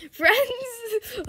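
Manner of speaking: high cry of friends; high excited friends; excited call. Real, not acted. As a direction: sing it out happily.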